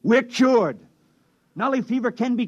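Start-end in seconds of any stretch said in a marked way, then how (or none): 0.0-0.8 desperate insistence. Acted. Desperate plea to be believed.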